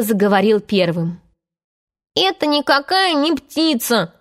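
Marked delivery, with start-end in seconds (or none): 2.1-4.1 higher-pitched, alarmed realization; frightened. A narrator's reading. Boy seeing it is no bird, frightened voice. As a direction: say it with rising fright. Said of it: "сказал он испуганным голосом".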